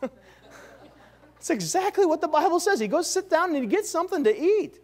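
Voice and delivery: preacher laughing to the congregation about Jehu's meal; laughing disbelief. Real, not acted. Chuckle it out in disbelief.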